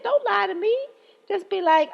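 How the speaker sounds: high, loud indignant plea; exasperated rant. Real, not acted. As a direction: raise it up, fed up. Ranting at liars.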